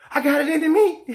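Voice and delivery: high laughing mock excuse. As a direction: parrot the lame excuse with a laugh. Mocking Fury's excuse.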